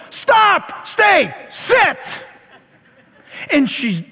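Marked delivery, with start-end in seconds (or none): 0.1-2.2 sharp, high yelled dog commands. Retold or imitated. Pastor yelling at his little dog to stop before the car, sharp high yell. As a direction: stop the dog dead with your voice. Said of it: "I yell to the little one".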